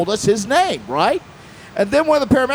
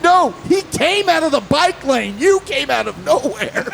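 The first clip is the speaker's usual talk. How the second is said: retold retort; 5 semitones higher than usual. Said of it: "I'm like".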